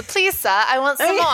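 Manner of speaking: lightly hammed-up Oliver Twist British accent; put-on British accent. Shown as a demonstration. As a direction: play a begging orphan with a put-on British accent. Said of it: "All of my accents are".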